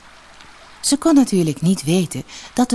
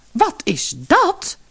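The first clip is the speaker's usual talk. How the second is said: slow, high amazed cry; stunned, drawn-out question; astonished; 12 semitones higher, much slower than usual. Acted. Mother seeing jewels fall from her daughter's mouth, amazed. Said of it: "riep haar moeder stom verbaasd uit".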